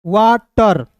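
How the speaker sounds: वाटर split slowly into "waa-tar"; sounded-out pronunciation. Shown as a demonstration. Teacher showing learners how to read WATER, sounded-out pronunciation. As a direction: say वाटर carefully, ending in "tar". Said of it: "इसे पढ़ेंगे वाटर".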